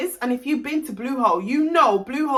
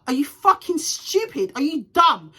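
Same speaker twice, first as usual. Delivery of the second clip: exasperated, higher-pitched challenge; angry retort; 4 semitones higher than usual. Retold or imitated. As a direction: retell it with indignant bite. Retold angry retort in a row.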